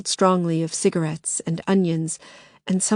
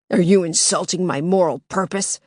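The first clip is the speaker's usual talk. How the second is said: demanding. Acted. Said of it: "the figure demanded".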